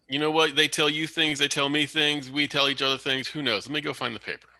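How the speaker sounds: high, rambling fake New York accent. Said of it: "really bad New York accent".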